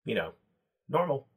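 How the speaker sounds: a small goblin acting confident and tall; goblin bravado. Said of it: "He says".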